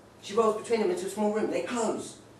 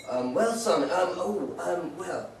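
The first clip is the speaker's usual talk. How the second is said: flustered hesitation; 2 semitones lower, much slower than usual. Retold or imitated. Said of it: "he went to me and he said".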